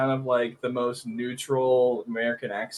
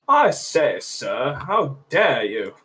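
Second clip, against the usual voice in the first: posh British; slower than usual. Retold or imitated. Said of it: "posh, upper class".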